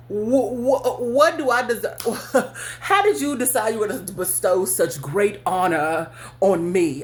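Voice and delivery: laughing mock outrage at the offer; laughing disbelief. Real, not acted. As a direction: scoff through laughter, mock honored. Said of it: "I really wanna know".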